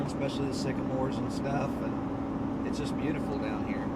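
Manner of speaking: talking over road bumps in the truck; on a bumpy road. Real, not acted. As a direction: voice jolted by a bumpy ride. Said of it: "Sorry about the bumpy ride".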